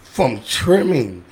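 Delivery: slow, deliberate list; each word given weight; slow heartfelt listing. Real, not acted. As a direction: lay out each crew slowly. Lists crew with slow emphasis.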